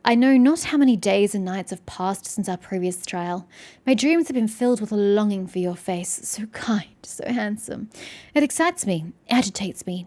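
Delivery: measured, earnest romantic read; understated theatrical declaration of longing; love letter reading. Acted. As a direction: read it like a formal love letter, lingering on the endearments. Reads love letter aloud in game.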